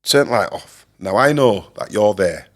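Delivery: loud mock Scottish accent; attempted Scottish accent. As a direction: imitate a Scot, loud and deliberate. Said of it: "attempt at a Scottish accent".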